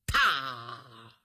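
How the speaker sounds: low, drawn-out "pa" sound effect; imitated smack. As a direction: voice a dropping clap, pitched low. Imitated noise after the fall.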